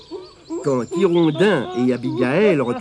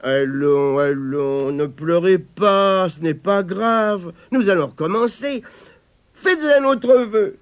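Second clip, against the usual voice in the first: gentle consoling; 3 semitones higher than usual. Acted. Tirondin consoles crying Denis.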